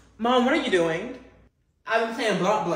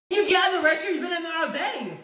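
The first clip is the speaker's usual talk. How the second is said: shouting; 5 semitones higher, faster than usual. Acted. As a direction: yell through the bathroom door. Yelling at sibling in restroom.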